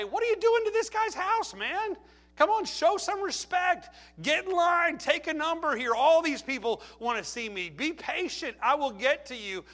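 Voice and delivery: high, loud, scolding host voice; indignant Jesus. Pretend. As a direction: scold them like an offended homeowner. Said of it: "you might think Jesus would say".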